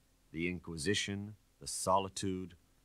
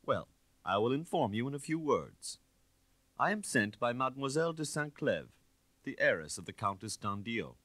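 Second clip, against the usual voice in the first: sly inspector; 5 semitones higher, 3 dB louder than usual. Acted. Inspector figure voice.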